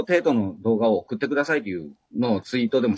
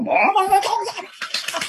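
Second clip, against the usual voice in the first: much higher, fast, laughing "おめでとうございま"; hyped-up congratulations; much faster than usual. Shown as a demonstration. Showing his friend how to congratulate, high, fast and laughing. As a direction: gush it out, racing and laughing. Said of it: "もうちょっとあろう".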